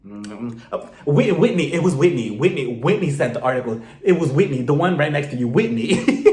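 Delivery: mock eager tattletale, mouth full; imitating a friend eagerly telling on another; eager blurting. Lisa blurts out mid-bite.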